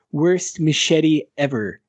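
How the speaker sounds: lightly imitated cartoon know-it-all, slow; slow, mildly hammed-up verdict; Comic Book Guy. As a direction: space the words out in mock disdain. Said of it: "talk like comic book guy and just be like".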